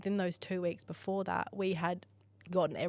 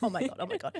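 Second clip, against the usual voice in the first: shaky excitement; 5 semitones higher than usual. Retold or imitated. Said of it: "like, shaking".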